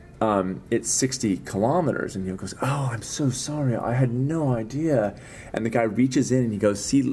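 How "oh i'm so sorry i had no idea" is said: put-on faint, half-hearted British accent, pitched up. Retelling a speeding story, the speaker apologizes to the guy in his weak British accent. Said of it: "In um, British".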